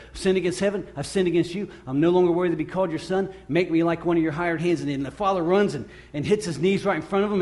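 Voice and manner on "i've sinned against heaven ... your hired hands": lightly acted prepared confession, raised and hurried; imitating a son reciting his apology; prodigal's rehearsed apology. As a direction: rattle off a rehearsed little speech of repentance. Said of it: "sounding like the prodigal, he's getting his st-, sermon together".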